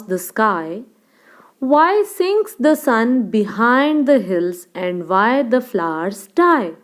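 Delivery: slow, measured recital with lilting stresses; poem recitation. Shown as a demonstration. Teacher reciting a poem for students to follow, slow measured recitation. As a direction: recite line by line, slowly and clearly. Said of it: "we will be reciting the poem".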